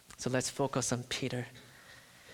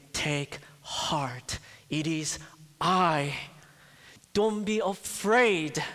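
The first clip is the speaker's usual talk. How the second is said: Christ's reassurance; 2 semitones higher, slower than usual. Acted. Christ comforting frightened disciples.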